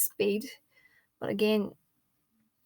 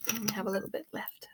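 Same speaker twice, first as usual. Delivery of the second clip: whispering; 7 dB quieter, faster than usual. Real, not acted. Aside to herself.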